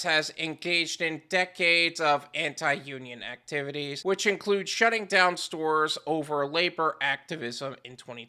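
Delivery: even, low-key reading of a report; article read-aloud. Real, not acted. Host quoting a news article to viewers, measured reading. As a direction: read it out, sinking low at the end.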